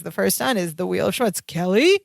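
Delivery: lightly voiced announcer, rising on the final name; a hint of game show host handing over. The host introducing the first stunt to his co-host, light announcer voice. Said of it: "Bink does his announcer voice".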